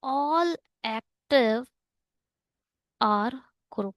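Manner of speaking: very slow, drawn-out words with long gaps; word-by-word reading. Shown as a demonstration. Teacher repeats the statement for students to follow, word by word. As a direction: stretch each word and pause between them.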